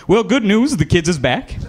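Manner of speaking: lightly voiced upbeat caller; caller with news. Job applicant calling back with good news, mildly put-on caller voice.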